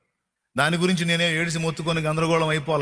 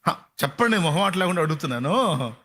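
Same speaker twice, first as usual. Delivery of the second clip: normal talking voice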